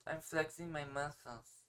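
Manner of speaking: slow, put-on muscle poser voice; mocking slow boast; mock lifter. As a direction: play a vain gym poser, slowly. Mocks a half-hearted lifter.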